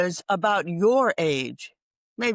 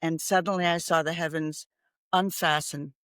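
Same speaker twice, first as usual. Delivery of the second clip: poem recital. Acted. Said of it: "And I wrote the first bare line".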